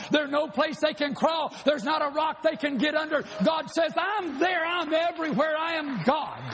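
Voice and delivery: fervent preacher's shout; preaching at full force. Real, not acted. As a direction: push it at the congregation.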